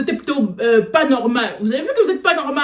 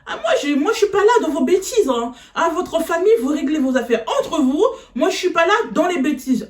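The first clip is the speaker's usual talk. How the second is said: higher, laughing teacher voice; mock teacher brushing off; 4 semitones higher than usual. Teacher dismisses the student's family, higher and laughing. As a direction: play the teacher waving it away with a laugh.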